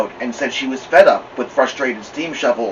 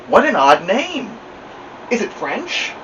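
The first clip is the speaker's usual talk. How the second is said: puzzled lady; 8 semitones higher than usual. A narrator's reading. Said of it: "exclaimed the lady".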